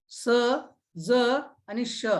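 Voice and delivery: "स", "ज", "श" as isolated s, z and sh sounds; sounding out consonants. Shown as a demonstration. Teacher listing the sounds of letter S, sounding out "स", "ज", "श" singly. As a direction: separate "स", "ज" and "श" with short pauses. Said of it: "यस चा उच्चार".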